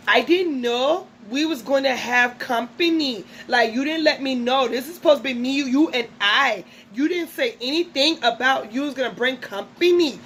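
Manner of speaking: lightly attempted imitation of Amara's accent. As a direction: try a bit of Amara's accent, playfully. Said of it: "I will try a little bit for y'all".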